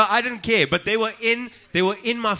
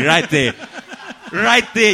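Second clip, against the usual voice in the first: laughing; 5 semitones higher, 7 dB louder, slower than usual. Real, not acted. Laughing at the co-host's reaction.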